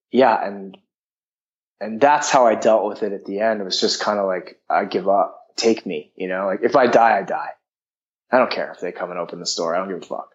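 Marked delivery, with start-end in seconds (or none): 4.7-10.3 low, defeated giving up; resigned surrender. Retold or imitated. Quotes own surrender at lowest point.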